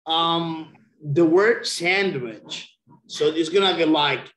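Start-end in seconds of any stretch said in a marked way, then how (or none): 1.7-2.8 "sandwich" slowly and carefully sounded out; model pronunciation. Shown as a demonstration. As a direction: draw out "sandwich" for a learner. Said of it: "for the pronunciation there".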